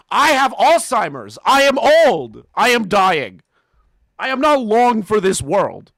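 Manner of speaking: put-on frail old man. Mocking the reviewer as a pitiful dying old man. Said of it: "a poor old man".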